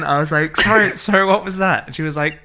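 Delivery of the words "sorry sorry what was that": asking again while half laughing; fighting back giggles, politely asking her to repeat; stifling a laugh. Retold or imitated. Waiter asking the proper woman to repeat, barely holding laughter. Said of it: "try so hard not to just laugh".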